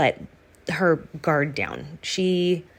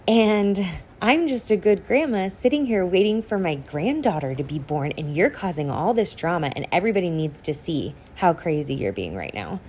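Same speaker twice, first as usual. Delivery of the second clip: sing-songy mock. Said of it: "this really weird sing-songy voice".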